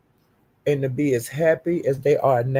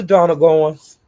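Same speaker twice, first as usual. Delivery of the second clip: calling out a name; 7 dB louder, slower than usual. Real, not acted. Calling out a named enemy.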